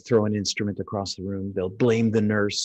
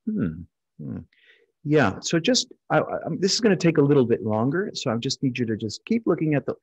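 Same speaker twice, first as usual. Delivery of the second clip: calm outward voice; 2 semitones higher than usual. Shown as a demonstration. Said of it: "But outside, you're going".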